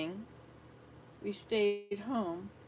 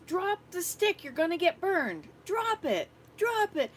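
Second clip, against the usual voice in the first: higher, louder urgent command; retold urgent yell; 8 semitones higher, 6 dB louder than usual. Grandmother retelling how she yelled at the girl, urgent command. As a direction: order the child to drop it now. Grandmother ordering child to drop stick.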